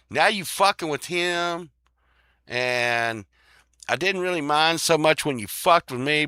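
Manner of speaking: high, loud, worked-up rant as Casper; angry Casper rant. Retold or imitated. Casper telling off the bullies, high and loud. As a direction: yell at the bullies who picked on his friend.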